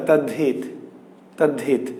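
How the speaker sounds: "তদ্ধিত" low, merged as tad-dhit; spoken form. Shown as a demonstration. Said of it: "কিন্তু উচ্চারণ কি".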